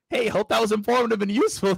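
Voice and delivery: gently mock a canned email greeting; weird email voice. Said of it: "I would never go up to someone and be like".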